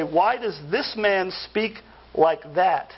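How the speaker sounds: slow, scornful quoting of the scribes; acted contempt, deliberately slow; contemptuous. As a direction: draw it out with disdain for this man. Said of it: "with contempt for Christ".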